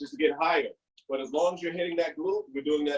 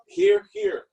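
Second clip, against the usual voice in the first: coaching call; 13 semitones higher, much slower than usual. Shown as a demonstration. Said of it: "Control your breathing".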